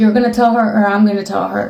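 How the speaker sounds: ordinary talk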